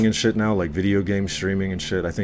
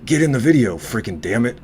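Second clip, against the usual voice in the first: imitating a dad barking at his kid; mock angry yell, sharp and loud; retold angry dad yelling; 4 semitones higher, 4 dB louder than usual. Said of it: "actually angry".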